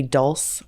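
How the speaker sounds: dulce said as dulse, one syllable; one-syllable guess. Shown as a demonstration. Vlogger guesses from the spelling, dulce as one-syllable dulse. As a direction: drop the final vowel of dulce. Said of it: "so maybe dulce or".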